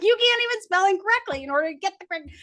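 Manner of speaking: fast, high and laughing; laughing dad. Retold or imitated. Dad laughing at his daughter's bad spelling, fast laughing tease. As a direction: crack up mid-tease. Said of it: "He's like".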